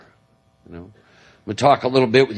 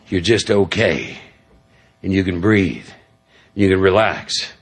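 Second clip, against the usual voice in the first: calm, soothing; 3 semitones lower than usual. Real, not acted. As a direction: let each phrase breathe, as in meditation. Evokes his calm meditation place.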